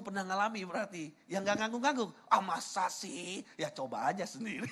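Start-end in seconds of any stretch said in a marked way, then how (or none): 2.3-3.4 long drawn-out doubting question; mock scepticism. Preacher imitating a congregant who doubts him, sceptical. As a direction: stretch it out like a disbeliever.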